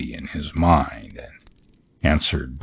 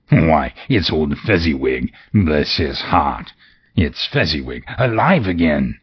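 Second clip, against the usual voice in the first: excited. Acted. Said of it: "Scrooge cried with great excitement".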